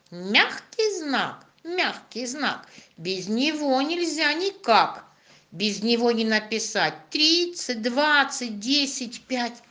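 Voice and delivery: put-on rhythmic children's poem; poem recitation. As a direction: recite the rhyme with bouncy rhythm. Recites poem about soft sign.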